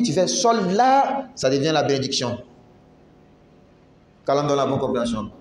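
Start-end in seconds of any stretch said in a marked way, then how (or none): 0.3-0.7 "sol" with a stressed, held "l"; pressed l. Shown as a demonstration. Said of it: "Mais quand tu appuies".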